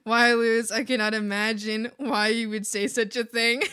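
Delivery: mock-offended Southern belle accent. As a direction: play a loud Southern belle, amused. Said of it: "Southern Belle".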